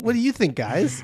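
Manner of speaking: high, loud mock YouTuber question; social media influencer. Host polling his audience, mock influencer voice. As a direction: play up the influencer asking followers. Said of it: "I'm becoming a social media influencer".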